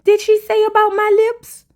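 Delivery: lightly voiced shocked reality star; mock disbelief. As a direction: ask it like you can't believe it. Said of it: "she said".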